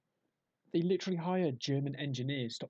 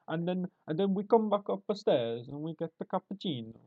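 put-on Italian accent. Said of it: "why are they so good at organised crime".

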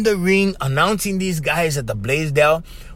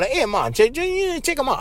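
excited call to mom; 8 semitones higher than usual. Retold or imitated. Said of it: "I call my mom".

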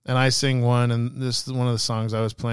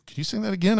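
much higher, anime-like pleading question; high-pitched mock anime voice; imitated anime character; 10 semitones higher, faster than usual. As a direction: play an awed guard like an anime boy. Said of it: "Sounds like an anime".

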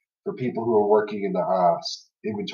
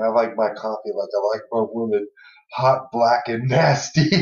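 flirty line. Retold or imitated. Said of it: "just the way he said it, his delivery".

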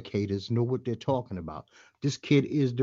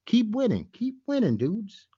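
excited cheer; 9 semitones higher than usual. Real, not acted. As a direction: cheer them on with a burst of hype. Cheering the team on.

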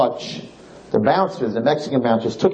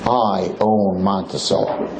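low, slow, menacing club owner repeating his boast; powerful owner; 5 semitones lower, slower than usual. Retold or imitated. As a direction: drag it out low, like you own the whole town. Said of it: "That's what he tells us".

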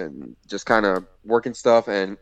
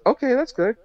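much higher retold voice; imitated woman wrestler; 13 semitones higher than usual. Wrestler approving the chop she took, imitated high. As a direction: lift the pitch right up to imitate her.

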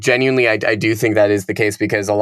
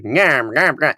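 mock old-timey detective nasal nyam; lightly hammed gangster detective; 4 semitones higher, slower than usual. Officer imitating a detective voice. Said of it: "he sounds extra detective-y".

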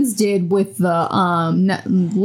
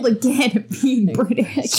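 mock whisper. Whispered self-pity line.

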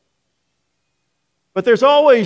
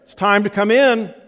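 higher, louder call out the back door; raised, singling-out motherly call; mom calling again; 7 semitones higher, 4 dB louder than usual. Retold or imitated. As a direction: imitate mom calling the boys, more insistent. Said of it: "it would be".

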